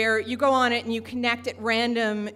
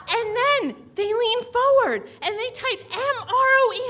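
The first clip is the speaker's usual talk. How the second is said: excited retelling; 9 semitones higher, 3 dB louder than usual. Acted. Still high from excitement.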